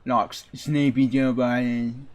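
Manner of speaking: lightly voiced smug Boston accent; a hint of smug Boston swagger; smug Boston Trump voice. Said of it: "Yeah, kinda like that".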